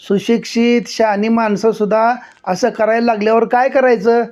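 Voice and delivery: reproachful headman. Acted. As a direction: shame the educated man. Headman rebukes educated man.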